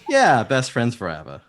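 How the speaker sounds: high, loud, eager agreement; excited high-pitched best-friend pledge; Valka. Acted. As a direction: agree loudly and high, full of devotion. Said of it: "He goes".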